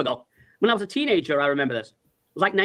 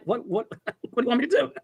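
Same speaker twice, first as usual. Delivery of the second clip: higher-pitched, helpless laughing question; retold plea breaking into laughter; laughing protest; 4 semitones higher than usual. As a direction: stammer it out through a laugh.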